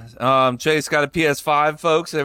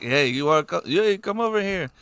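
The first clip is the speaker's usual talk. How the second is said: higher-pitched mock Asian accent; 5 semitones higher than usual. Retelling hibachi chef calling a child over, mock Asian accent. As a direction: put on a rough, unconvincing Asian accent. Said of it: "that's my best Asian voice".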